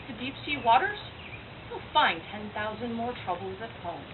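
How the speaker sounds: lightly voiced doomed prophetess; grim Cassandra. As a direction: pronounce doom with deliberate dramatic pauses. Monologue that is done by Cassandra.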